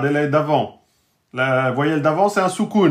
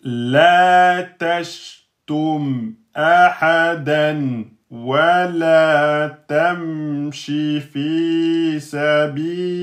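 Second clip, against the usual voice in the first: much slower, chanted tajwid recitation; slow Quran recitation; much slower than usual. Acted. Teacher reciting the full verse for students in a slow chant. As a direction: stretch every vowel, a steady chant.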